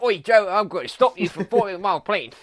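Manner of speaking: loud, high hammed-up British bloke; over-the-top mock British shout; mock British accent. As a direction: bellow it like a comic Victorian Batman. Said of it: "That was beautiful".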